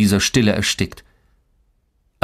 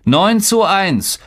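put-on high-pitched excited older brother; high kid's voice, drawing out the score; eager boy boast; 9 semitones higher, 3 dB louder than usual. A narrator's reading. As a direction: jump in to boast, high and keen. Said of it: "beeilte sich Boran".

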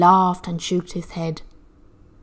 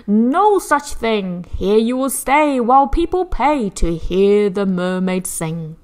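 slow, louder gruff refusal; Sam Sly refusing; 6 dB louder than usual. Acted. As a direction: shut her down with a cruel sneer. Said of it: "and he told her".

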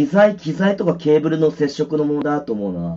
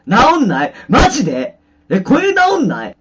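surprised disbelief; 10 semitones higher, 7 dB louder than usual. Real, not acted. Gear still broken.

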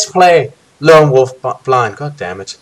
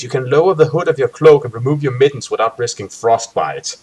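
calm gamebook narrator voice; story narration; 2 semitones lower than usual. Acted. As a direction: set the scene for the players.

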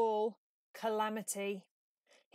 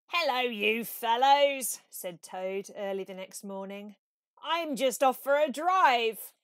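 breezy Toad; 2 semitones higher, 10 dB louder than usual. A narrator's reading. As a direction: sing out carefree and cocky.

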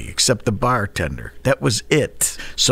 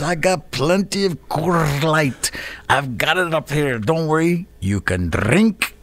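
put-on Scottish accent; 4 semitones higher than usual. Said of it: "Guy had a Scottish accent".

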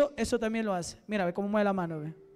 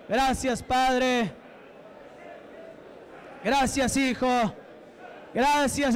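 insistent preacher's thanksgiving, word after word; fervent praise prayer; 2 semitones higher, slower than usual. Real, not acted. Preacher thanking God for the deliverances, fervent. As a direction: pour out praise in chanted bursts.

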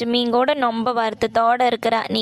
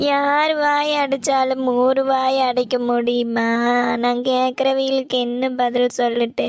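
tearful wailing. Acted. Mother fretting over village gossip, crying. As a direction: draw the words out through tears. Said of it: "நீ இப்படி அழுதழுது".

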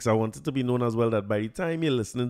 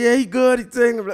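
much higher and louder, confident teammates; mock crowd cheer; 11 semitones higher, 8 dB louder than usual. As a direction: call out that he's fine. Teammates declare him fine.

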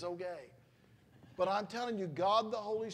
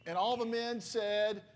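loud and slow, calling the crowd to answer; louder rallying call; 2 semitones higher, 6 dB louder, slower than usual. Real, not acted. Preacher to congregation, demanding a stronger response, loud and slow. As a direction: build it up loud and slow so they shout back. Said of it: "that was really weak".

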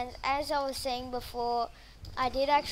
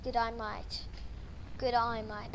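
put-on Australian accent. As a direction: try out an Aussie g'day, repeated. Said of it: "I got a mighty Australian accent here".

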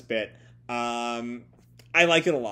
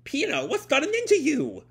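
high-pitched, distressed question; acted high squeal of concern; alarmed disbelief; 13 semitones higher than usual. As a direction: cry out in bewildered alarm, voice way up. Friend alarmed at Pino's strange behavior.

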